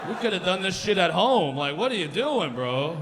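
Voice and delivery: hammed-up dad scolding the son; mock dad rant.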